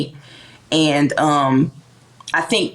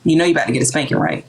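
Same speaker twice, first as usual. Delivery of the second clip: calm mother; 4 semitones lower, faster than usual. Retold or imitated. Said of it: "she'd be like".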